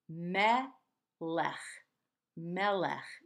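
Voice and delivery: melech with a gentle throaty ch at the end; soft ch ending. Shown as a demonstration. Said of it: "We have that same gentle ch sound at the end of melech".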